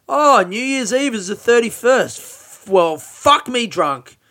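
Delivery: exasperated realisation. Real, not acted. Realising he'll miss a podcast.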